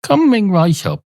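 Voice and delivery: hint of a sing-song serving voice; obliging barman. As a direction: oblige a customer, lifting the pitch lightly. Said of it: "the man behind the bar says".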